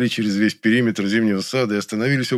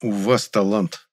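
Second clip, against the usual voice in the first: enthusiastic; slower than usual. Acted. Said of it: "восторженно сказал я".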